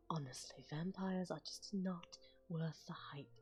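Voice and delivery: put-on lightly done posh British accent; hint of posh British. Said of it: "you could also do posh British".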